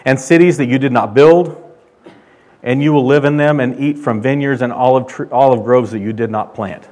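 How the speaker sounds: loud, declaring God's words; voicing God. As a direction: proclaim it as God speaking. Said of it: "He said".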